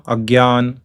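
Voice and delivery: Agyan with a hard g-y sound; Agyan, gy in place of jn; North Indian pronunciation. Shown as a demonstration. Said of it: "in North India, it is pronounced".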